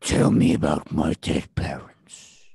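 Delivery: slow, low, breathy whisper; creepy whisper. Acted. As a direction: hiss it like a ghost. Mock whispered creepy request.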